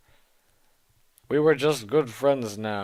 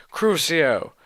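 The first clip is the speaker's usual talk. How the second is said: louder, higher hammed-up spell; shouted curse; 5 semitones higher, 5 dB louder than usual. Heroine shouting the torture curse at Voldemort, hammy. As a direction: yell the curse at him. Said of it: "I shouted at him".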